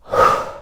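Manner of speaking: short breath out through the mouth; audible breath out. Shown as a demonstration. Teacher starting the belly breathing, audible exhale. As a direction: breathe out so they can hear it. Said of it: "take a normal deep breath in and out".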